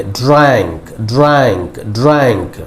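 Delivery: ड्रैंक with a drawn-out open "a" as in "cat"; tongue glides downward. Shown as a demonstration. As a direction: take the tongue up, then down through ड्रैंक. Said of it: "ज़बान को ज़रा ऊपर से लेकर नीचे लाएंगे". (ड्रैंक, ज़बान ऊपर से नीचे लाते हुए)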